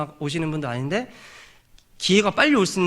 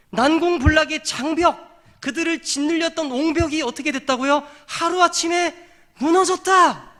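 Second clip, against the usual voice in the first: high, sustained, slow proclamation; impassioned preaching; 10 semitones higher, 3 dB louder than usual. Real, not acted. Preacher proclaims how praise toppled the wall, impassioned preaching. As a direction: drive each phrase home on a high held pitch.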